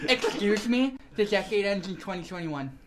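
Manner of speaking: nasal know-it-all nerd. Pretend. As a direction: correct them like a smug nerd. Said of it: "You do that voice too well".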